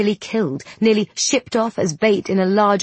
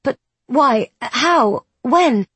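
bewildered; 6 semitones higher, 5 dB louder, much slower than usual. A narrator's reading. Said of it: "Isby's mind is reeling".

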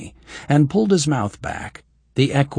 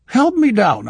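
mock imperious; 11 semitones higher, 7 dB louder than usual. A narrator's reading. She hides laughter, mock threat.

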